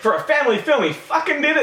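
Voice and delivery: high-pitched laughing through the words. Real, not acted. Host cracking up at his cohost's joke, laughing.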